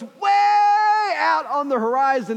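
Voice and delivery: high, loud and slow, stretching it out; excited servant shout. Acted. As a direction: call it out like he can't believe it. Servant bursts with news.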